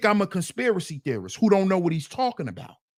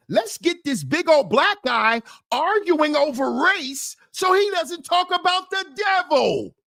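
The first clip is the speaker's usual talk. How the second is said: mocking the trolls; 6 semitones higher than usual. Mocks what the trolls are thinking.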